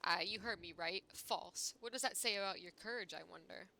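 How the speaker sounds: lightly voiced haughty character; smug, mocking character read; reading game dialogue. Reading NPC dialogue aloud.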